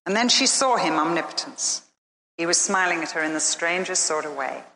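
ordinary talk, nothing marked

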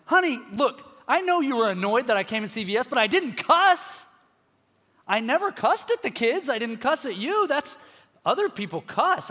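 high, loud pleading defense; husband minimizing his outburst to his wife, high and insistent; self-justifying. Retold or imitated. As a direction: talk yourself out of blame to your wife. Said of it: "I wanna compare and minimize".

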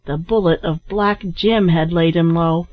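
usual speaking voice

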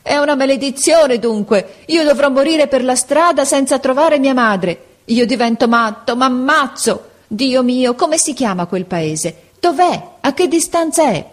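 put-on high, loud despairing cry of a boy; desperate outburst. A narrator's reading. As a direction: burst out in anger and despair. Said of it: "diede in uno scoppio di rabbia". (sfogo disperato, acuto e forte)

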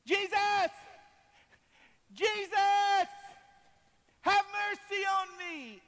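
very high, loud shout; full-voice beggar's plea; desperate calling out. Acted. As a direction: yell to be heard over the crowd. Blind Bartimaeus calling out to Jesus.

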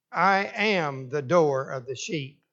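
slow reading with "am" given its full weight; stress on AM. Shown as a demonstration. Preacher imagining how the Lord said it, weight on "am". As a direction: lean on "am" in "I am", slowly. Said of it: "how the Lord said it".

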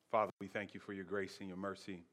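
ordinary talk

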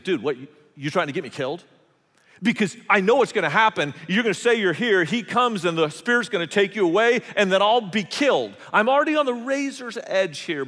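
panicked protest. Retold or imitated. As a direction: plead that this will get you killed. Servant fears being killed.

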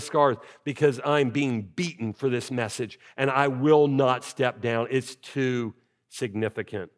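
slow, resolute Paul; slow it down and plant your feet; voicing Paul. Pastor voicing Paul refusing to step down, slow and firm. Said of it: "And Paul says".

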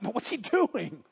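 drawn-out, wondering question; puzzled inner thought. Retold or imitated. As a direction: stretch it out, lightly acted bafflement. Tim's uneasy thought at pounding worker.

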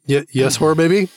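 encouraging dad voice; talking to a baby. Retold or imitated. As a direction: praise a toddler on the potty. Father coaching potty training.

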